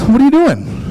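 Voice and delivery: high, loud what are you doing; incredulous yell. Retold or imitated. Boyfriend to girlfriend, high exasperated yell. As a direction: spike the pitch in comic panic. Reply continues at high pitch.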